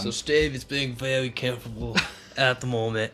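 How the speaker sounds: half-hearted Australian commentator; Australian accent. Acted. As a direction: attempt an Australian accent, breaking into a laugh. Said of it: "That's your Australian accent".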